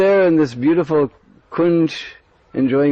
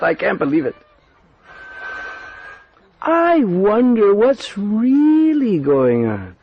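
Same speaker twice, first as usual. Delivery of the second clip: suspicious sister-in-law; 4 semitones higher than usual. Acted. Sister-in-law doubting Radharani's early baths, suspicious. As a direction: muse slyly, half to yourself. Kutila voices her suspicion.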